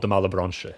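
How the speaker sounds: "Malebranche" French-style, "mala-bronsh"; bougie pronunciation. Shown as a demonstration. Choosing a bougie name for the devil, French-style "mala-bronsh". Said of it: "sounds very bougie".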